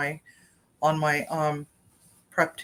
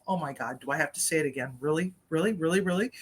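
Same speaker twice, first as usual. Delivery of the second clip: exasperated; 6 dB quieter, faster than usual. Retold or imitated. Retold exasperated reply to Timmy.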